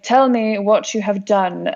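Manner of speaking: slow, mock Russian captain's accent; lightly put-on Russian accent, slow and deliberate; booming Russian accent. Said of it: "booming voice and accent".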